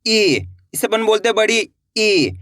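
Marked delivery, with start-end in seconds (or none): 0.1-0.5 "ई" stretched as a long vowel; drawn-out vowel. Shown as a demonstration. Teacher showing learners the big i, "ई" stretched. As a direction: draw the "ई" out. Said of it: "इसको अपन खींच के पढ़ेंगे".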